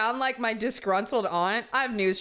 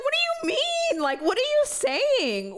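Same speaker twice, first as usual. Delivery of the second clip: hurt and confused. Retold or imitated. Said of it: "I would have been like".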